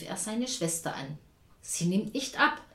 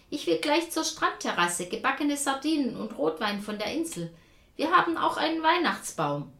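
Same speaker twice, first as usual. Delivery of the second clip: cheerful grandma; 6 semitones higher, 5 dB louder than usual. A narrator's reading.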